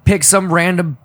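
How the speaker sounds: loud, slow, manic jeering; manic jester voice. Retold or imitated. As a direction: goad him like a reckless inner jester. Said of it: "that jester was just like".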